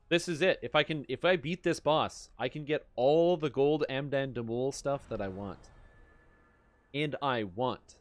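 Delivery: loud, wired gamer hype; hyped up. Real, not acted. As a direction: pump yourself up before the fight. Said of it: "I'm so jacked up".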